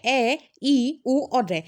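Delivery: short vowels ए, ई, ऊ said slowly one by one; name each short vowel ए, ई, ऊ clearly. Shown as a demonstration. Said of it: "इनको बोलने में थोड़ा कम समय लगता है".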